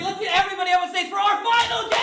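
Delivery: high, rousing build to the last word; rally the room for the big finish; hyped announcer call. Real, not acted. Host calling players up for the final game, hyped announcer call.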